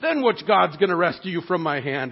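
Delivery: a touch of a proud sneering king. Retold or imitated. Preacher voicing Nebuchadnezzar boasting in his pride, lightly sneering. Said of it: "Nebuchadnezzar's pride is like".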